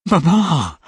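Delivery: sharp, high, frightened call; terrified cry. A narrator's reading. Kate calling her mother, terrified. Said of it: "cried Kate, really terrified".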